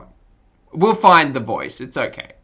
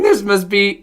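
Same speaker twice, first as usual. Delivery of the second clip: attempted puppet character; 6 semitones higher, 5 dB louder than usual. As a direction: raise it and draw it out. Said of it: "his voice is gonna be all over the shop".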